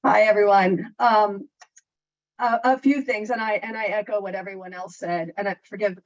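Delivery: muffled through a mask; talking through a face mask. Real, not acted. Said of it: "I hope you can hear me through my mask".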